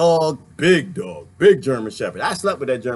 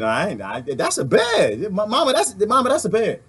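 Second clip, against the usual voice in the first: lightly voiced frightened dog calling mama, rising higher; scared dog voice; 4 semitones higher than usual. Dog in the bear story pleads with its owner, mildly scared. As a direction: play the dog backing off from the bear. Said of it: "the German Shepherd looked at her and said".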